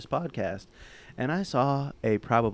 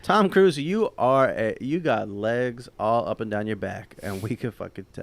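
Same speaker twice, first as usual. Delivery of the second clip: shouting at Tom Cruise; 4 dB louder than usual. Pretend.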